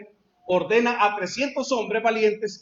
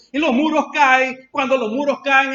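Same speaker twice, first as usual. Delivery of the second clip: dramatic climax; 5 dB louder than usual. Acted. Climax of the walls falling.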